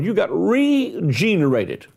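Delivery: "regenerated" slowed and leaned on, each syllable weighted; preacher pressing the word "regenerated" home; stress on regenerated. Real, not acted. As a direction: drag out "regenerated" with a falling finish. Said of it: "I'm gonna stress this word".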